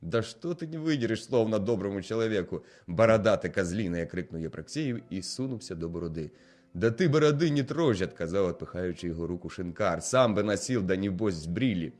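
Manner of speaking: loud, heated tavern argument voices; quarrelling Russian soldier and innkeeper. Acted. Soldier badgers the innkeeper for vodka, loud and heated. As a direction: bicker and shout across the bar.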